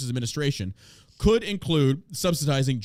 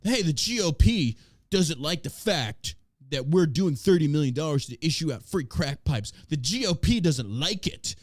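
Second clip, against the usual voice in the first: mocking the news outlet.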